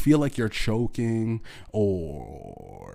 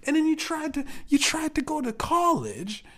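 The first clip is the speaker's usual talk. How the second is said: shrieking high and loud, sneering; high furious yelling; 13 semitones higher, 4 dB louder than usual. Real, not acted. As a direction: scream the mockery at him. Screaming insults at dad.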